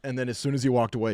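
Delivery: ordinary talk, nothing marked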